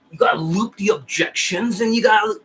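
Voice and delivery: a hint of a sales guru's pitch; Jordan Belfort impression. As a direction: loosely mimic a straight-line sales coach. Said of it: "that's how he talks".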